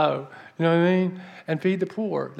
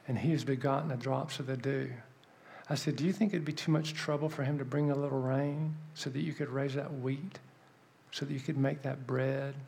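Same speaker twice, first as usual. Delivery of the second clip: earnest plea; 7 dB quieter than usual. Retold or imitated. Reasoning with the lady about God and rain, earnest quiet plea. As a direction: press the point quietly, clause by clause. Retold earnest question to the woman.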